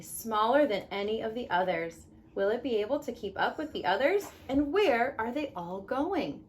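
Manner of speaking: gentle storybook read-aloud; reading to children. Acted. Mom reading The Tiny Seed to her kids, storybook voice.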